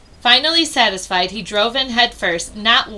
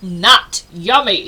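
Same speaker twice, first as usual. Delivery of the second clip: slow, louder disgusted bellow; bellowing bear; 3 semitones lower, 5 dB louder, slower than usual. Acted. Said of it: "he bellowed".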